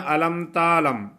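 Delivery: تعلم with taa and alif, a long تا; wrong reading. Shown as a demonstration. Teacher imitates students' error, long تا. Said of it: "جو لوگ غلط پڑھتے ہیں".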